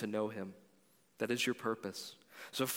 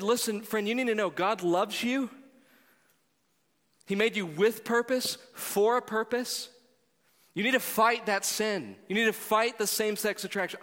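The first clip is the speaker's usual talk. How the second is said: high, loud preaching at him; preachy lecture; 7 semitones higher, 4 dB louder than usual. Retold or imitated. Pastor's imagined sermon at his friend, high and loud. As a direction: lecture him with a raised finger. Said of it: "I could have said".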